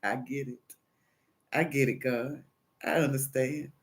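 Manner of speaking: low, soft surrender; humbled concession. Retold or imitated. Caller conceding to God after a maddening call, low and resigned. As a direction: quietly give in.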